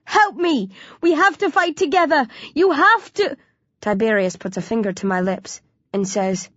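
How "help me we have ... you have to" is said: high, desperate cry for help; bellowing. A narrator's reading. Hero to Tiberius for help, bellowing. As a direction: call urgently on an ally. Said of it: "I bellow".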